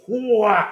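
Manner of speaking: loud, high whoosh of a whoa; imitated whoa. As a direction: imitate a swinging weapon with a big whoa. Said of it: "he shoots it and goes".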